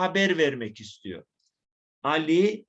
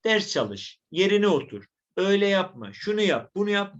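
commanding tone; 2 semitones higher than usual. Acted. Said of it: "Emir dili".

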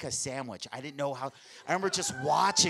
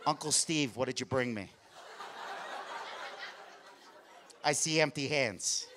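little gangster voice; 4 semitones lower, 8 dB quieter than usual. Retold or imitated. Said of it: "like Al Capone in The Untouchables".

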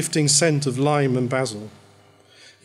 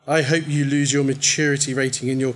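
through gritted teeth, barely opening the jaw. Acted. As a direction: spit it out through clenched teeth. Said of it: "through gritted teeth".

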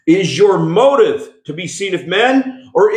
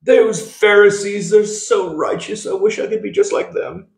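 higher-pitched British onlooker in mock admiration; mock British accent; 5 semitones higher than usual. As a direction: admire them wistfully in a put-on British accent. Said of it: "I did a British accent".

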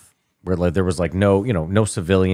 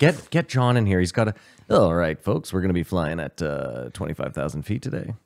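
pilot voice; 3 semitones lower than usual. Retold or imitated. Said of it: "really good at the pilot voice".

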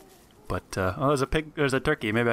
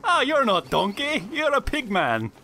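high, slow ogre exclamation; hammed-up, drawn-out ogre voice; Shrek-style ogre; 13 semitones higher than usual. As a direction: play the ogre making a discovery. Playing Shrek to a pigman.

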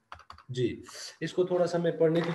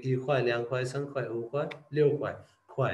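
vendor quoting prices; much slower than usual. Retold or imitated. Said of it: "वो कहेंगे".

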